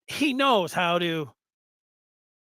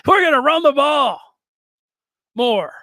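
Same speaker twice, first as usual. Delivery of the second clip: louder and higher, laughing through the cliché; loud laughing quote; 4 semitones higher, 6 dB louder than usual. Retold or imitated. Podcaster mocking the coordinator's run-the-ball answer, loud and laughing. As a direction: belt out the coach's line with a laugh. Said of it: "He said".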